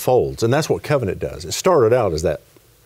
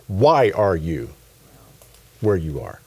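slow, deliberate "Why are you", pause, "where you are"; stress on WHY; slower than usual. Retold or imitated. Preacher showing what the Hebrew really says, slow weight on "Why". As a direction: stretch "Why" and let the question sink in. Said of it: "it's this".

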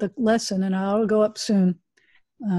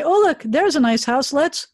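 higher-pitched, lightly excited exclamation; playful mock enthusiasm; acted house-hunting delight; 5 semitones higher than usual. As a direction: play eagerly spotting a house. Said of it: "a little more and we say".

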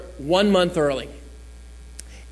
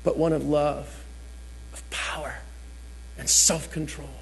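scripture reading; 4 semitones lower, 8 dB quieter than usual. Acted. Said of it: "the N I V reads this way".

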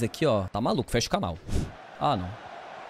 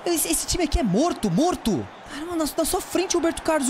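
furious rant; 9 semitones higher than usual. Real, not acted. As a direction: blast the useless team. Furious at his team.

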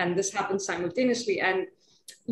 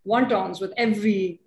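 put-on Chinese accent; 3 semitones lower than usual. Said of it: "in this Chinese accent".

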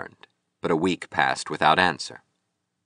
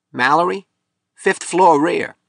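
high-pitched landlady, louder and drawn out; slatternly landlady; 12 semitones higher, 5 dB louder than usual. A narrator's reading. Landlady directing a visitor upstairs, slatternly and indifferent. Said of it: "A slatternly landlady said".

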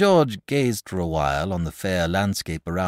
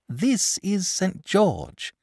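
curt; 5 dB louder, much slower than usual. Acted. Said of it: "said the boy shortly".

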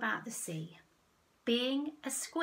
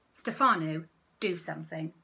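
shriek; 3 semitones lower, 7 dB louder than usual. Acted. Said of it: "she shrieked again".

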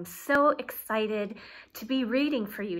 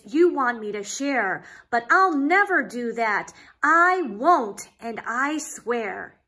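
lively, sing-song storybook reading; reading to children; 4 dB louder than usual. Acted. Reading a rhyming picture book to young listeners, lively storyteller. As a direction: read it like a bedtime story for kids.

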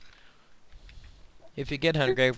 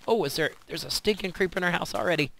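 being chased; 3 semitones higher than usual. Real, not acted. Fleeing a creeper in panic.

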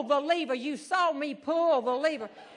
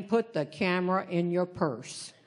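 firm, lower command from a huge guard; lower big man's order; 6 semitones lower than usual. Retold or imitated. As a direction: lay down the casino rule. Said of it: "the biggest man you will ever see".

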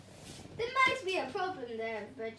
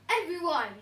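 mock shout; 2 semitones higher, 5 dB louder than usual. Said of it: "shouted Sweet Potato".

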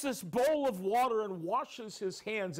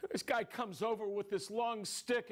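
plain reading voice

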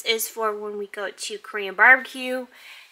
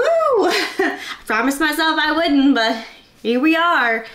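laughing through tears; 5 semitones higher than usual. Real, not acted. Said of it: "Oh my God, I'm gonna cry".

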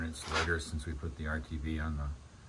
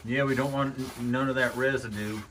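lightly put-on Southern accent, pitched up; phony Southern voice; 5 semitones higher, 4 dB louder than usual. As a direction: slip into a hint of fake Southern twang. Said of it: "slipped into my southern phony voice".

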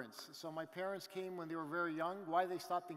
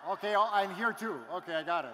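laughing; 10 dB louder than usual. Real, not acted.

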